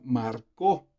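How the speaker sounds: "marcó" stressed on the last syllable, mar-CÓ; past-tense stress. Shown as a demonstration. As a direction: land the stress on the final O of "marcó". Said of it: "se convierte en un verbo en pasado". ("marcó" con acento en la o final)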